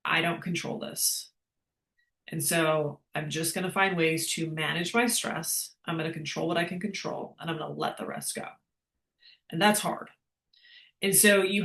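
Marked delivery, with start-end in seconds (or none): 0.1-8.5 softer, calm letting-go voice; calm self-talk. Retold or imitated. Coach voicing a woman calmly letting stress go, soft. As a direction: talk yourself down gently. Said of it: "instead of being like".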